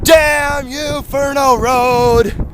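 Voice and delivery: yelling in frustration at the road; angry shout. Real, not acted. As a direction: shout it out, fed up. Shouting at road while running.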